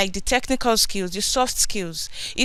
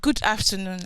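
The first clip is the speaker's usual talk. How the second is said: speaking up. Real, not acted. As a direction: raise your voice to be heard. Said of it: "Can you speak up, please?".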